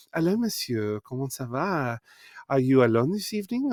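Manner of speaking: put-on soft French-accented come-on; flirty French accent. Brothel worker propositioning players at the table, flirty French accent. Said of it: "it was all French accents".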